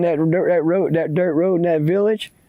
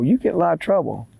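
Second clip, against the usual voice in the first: fast retort; 3 semitones higher, faster than usual. Acted. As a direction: fire it back fast. Boy throws it back at stranger.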